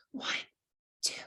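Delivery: whispered numbers, barely voiced; whisper counting. Shown as a demonstration. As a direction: breathe the count out softly. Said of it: "we whisper count".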